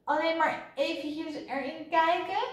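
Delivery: put-on high, pleading child's voice; trembling voice. A narrator's reading. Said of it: "Otjes stem begon te trillen". (met hoge, trillende stem)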